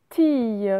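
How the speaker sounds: "Tille" said teey with a y glide; "Tille" like the end of myrtille; syllable reading. Shown as a demonstration. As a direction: read "Tille" alone, drawn out. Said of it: "comme, euh, une myrtille".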